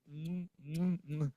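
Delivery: acted-out lovey thank-you; affectionate thanks. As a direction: thank them tenderly between little kisses. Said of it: "terus saya cium".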